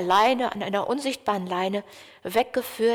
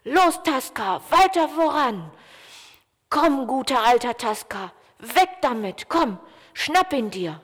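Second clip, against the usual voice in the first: cheering on; 2 semitones higher than usual. Acted. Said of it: "feuerte ihn an".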